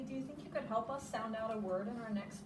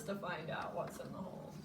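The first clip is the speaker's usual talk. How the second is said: nervous whisper; 6 semitones lower, 7 dB quieter, faster than usual. Shown as a demonstration. Teacher whispering to preschoolers about the hole. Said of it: "They look a little nervous".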